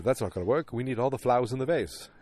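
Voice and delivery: put-on British boss voice; mock British accent. British boss objecting on the phone, mock British accent. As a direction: insist in a hammed-up British accent. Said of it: "the guy's like".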